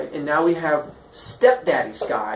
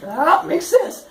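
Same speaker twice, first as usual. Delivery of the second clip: slow, high, loud realisation; hammed-up high-pitched agreement; mock acceptance; 13 semitones higher, 5 dB louder, slower than usual. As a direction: pretend it all suddenly makes sense.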